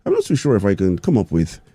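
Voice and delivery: rough, lightly attempted Irish accent; amateur Irish accent that drifts towards Scottish. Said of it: "it's my Irish accent".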